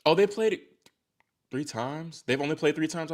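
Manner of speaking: high-pitched, questioning disbelief; genuine surprise. Real, not acted. Streamer checking head-to-head stats, caught by surprise. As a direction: pitch jumps up as the fact lands.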